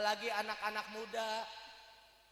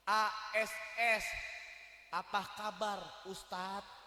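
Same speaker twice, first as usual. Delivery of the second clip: mock text message; slower than usual. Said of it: "yang nge-WhatsApp ke Ustadz Uus".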